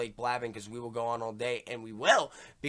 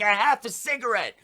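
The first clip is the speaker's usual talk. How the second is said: matter-of-fact explainer; 10 semitones higher, 9 dB louder than usual. Retold or imitated. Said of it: "I'm like".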